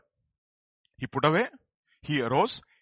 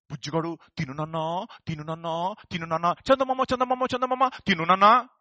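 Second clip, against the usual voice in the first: sing-song lullaby coaxing in Telugu, building louder; coaxing a child to eat; 6 dB louder, faster than usual. Retold or imitated. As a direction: coax a little boy to eat, like a mother. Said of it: "it's like".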